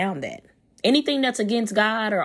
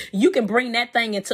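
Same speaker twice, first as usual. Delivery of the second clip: laughing; 5 semitones higher, 3 dB louder than usual. Real, not acted. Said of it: "I'm laughing because that is so deep".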